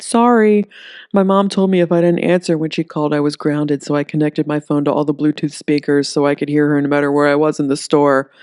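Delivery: put-on a nervous teenager explaining himself fast; zitty teen. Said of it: "the zitty teen ... said".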